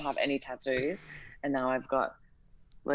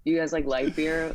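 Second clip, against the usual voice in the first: put-on LA Cali girl accent. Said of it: "L A Cali girl, like, accent".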